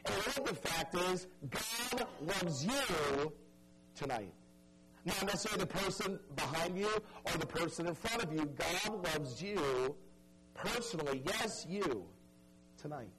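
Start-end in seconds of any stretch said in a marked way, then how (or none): 1.5-4.3 slow emphasis. Real, not acted. Preacher telling each listener directly, slow and deliberate. 8.4-13.1 "God loves you" stretched out word by word; slow emphasis. Real, not acted. Preacher singling out each listener, slow and deliberate.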